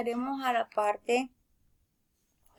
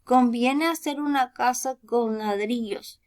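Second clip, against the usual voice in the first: firm, loud start on No; a sensible third little pig, firm and sure; firmly; 4 dB louder, slower than usual. Acted. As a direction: say it firmly, putting your foot down.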